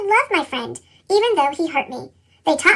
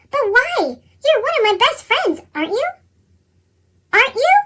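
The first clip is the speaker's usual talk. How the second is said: put-on higher, pleading child asking why; hurt pleading; 6 semitones higher than usual. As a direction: beg for an answer, confused and hurt.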